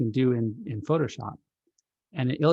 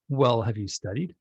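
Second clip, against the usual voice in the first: tense, impatient parent asking; a sharp edge under the question. Acted. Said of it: "says with an edge in their voice".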